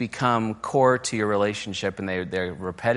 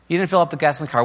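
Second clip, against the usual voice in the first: higher, louder, scolding a spouse; mock exasperated accusation; 6 semitones higher, 4 dB louder, much faster than usual. Wife scolding husband over the empty gas tank, mock exasperated. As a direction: throw it at him like an accusation. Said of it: "any complaint that ends with".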